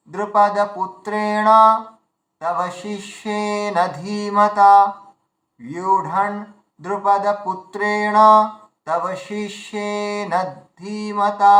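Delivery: measured, slow Sanskrit chant; slow verse recitation. Shown as a demonstration. Teacher reciting the full verse line for students. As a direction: recite the śloka slowly, word by word. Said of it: "এটা হচ্ছে এর উচ্চারণ".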